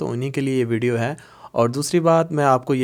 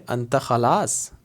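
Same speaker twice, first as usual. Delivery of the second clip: slow long form; much slower than usual. Shown as a demonstration. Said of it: "اب یہاں پہ اس کو بولیں گے".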